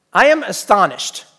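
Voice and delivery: slow, weighty rebuke; stern astonishment. Acted. Preacher voicing Saint Paul scolding the Galatians, stern and slow. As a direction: read it like a letter written in anger. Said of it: "Listen to the tone of the letter".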